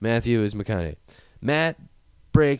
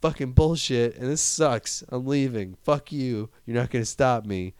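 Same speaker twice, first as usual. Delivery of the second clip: space crazy; 4 semitones higher than usual. Retold or imitated. Matt Damon abandoning McConaughey, higher unhinged rant. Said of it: "I've gone space crazy".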